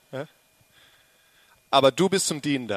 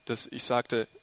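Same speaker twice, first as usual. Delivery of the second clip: quiet aside; 4 semitones lower, 6 dB quieter than usual. Real, not acted. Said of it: "das war eigentlich ironisch gemeint".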